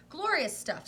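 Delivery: high, loud relish; delighted praise. Acted. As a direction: savour the word glorious. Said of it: "Wonka praising butter gin".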